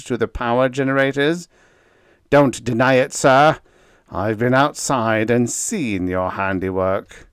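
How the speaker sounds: raging accusation. A narrator's reading. Efficiency expert accusing Biggs of sabotage, raging. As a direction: grill him in a rage. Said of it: "raged the efficiency expert".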